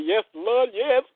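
high, loud Yes Lord; imitating her happy man praising the Lord; ecstatic man. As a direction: cry out to heaven in delight.

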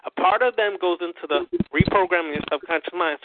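slow and deliberate, every word spelled out; over enunciating. Shown as a demonstration. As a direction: say it slowly, word by word. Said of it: "let me say it slowly".

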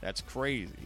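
even, polished sponsor read. Acted. Host pitching a fantasy football contest to listeners, ad-read delivery. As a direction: sell it like a radio promo.

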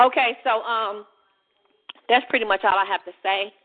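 breathless from walking; winded, talking while exercising; out of breath. Real, not acted. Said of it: "out of breath, y'all".

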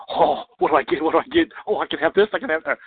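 put-on high, giddy candy-shop kid. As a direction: squeal it like a thrilled child. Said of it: "like a kid in a candy shop going".

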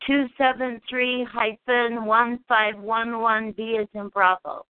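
slow careful read-back; dictating. Real, not acted. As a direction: read it back slowly to check. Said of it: "read it back to you and make sure you got it right".

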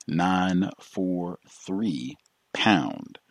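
each digit slow and spaced; slow, deliberate number reading. Shown as a demonstration. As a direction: read the number slowly for callers. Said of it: "Number again".

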